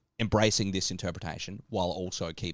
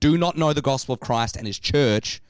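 formal reading. Shown as a demonstration. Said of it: "I just wanna read this part again".

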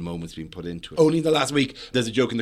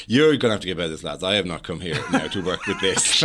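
mock berating; 2 semitones lower, 4 dB louder than usual. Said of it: "I generally say to them, I go".

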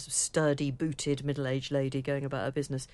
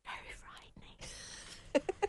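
spooky voice; 11 dB quieter, faster than usual. Pretend. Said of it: "Do it again".

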